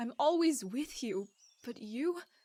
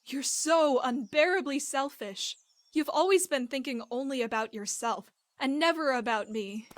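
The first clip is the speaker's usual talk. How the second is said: heated, emphatic reproach; angry accusation; 4 dB louder than usual. Acted. Woman accusing her partner of selfishness, angry. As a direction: lay the blame on hard, loud on the key words.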